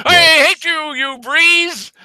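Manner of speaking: high, loud ferocious mock roar; roaring defiant dandelion. Dandelion roaring at the breeze, ferocious defiance. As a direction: yell it with hammed-up defiance. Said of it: "Dandelions roar in ferocious defiance".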